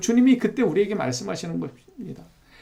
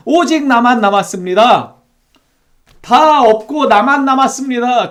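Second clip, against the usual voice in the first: louder, higher complaining plea with "오직" pushed hard; complaining Elijah; 4 semitones higher, 6 dB louder than usual. Acted. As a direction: whine it out to God, feeling all alone. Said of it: "이렇게 막 불평하는 것 같아 보이지 않습니까?".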